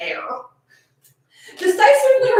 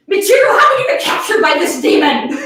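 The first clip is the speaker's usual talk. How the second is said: mock despairing cry; 4 dB louder than usual.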